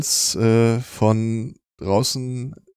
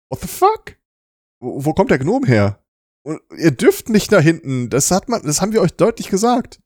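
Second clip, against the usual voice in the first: shrill outraged shout, climbing higher; angry shout; 7 semitones higher, 5 dB louder than usual. Acted. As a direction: yell it, louder and higher. Doctor catches intruders with gnome.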